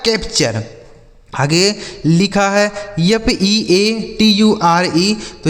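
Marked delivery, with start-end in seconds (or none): 2.7-5.2 slow letter-by-letter spelling; each letter given its own beat. Shown as a demonstration. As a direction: spell it out slowly for learners. Spells words out for learners.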